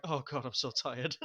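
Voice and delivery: slow, mildly acted exhaustion; weary. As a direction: imitate a worn-out hero, dragging it out. Acting out exhausted hero after fight.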